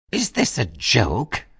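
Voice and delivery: high, drawn-out, stretched-out shriek. Baby reacts as the children bring in her dinner, shrieking. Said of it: "shrieked Baby".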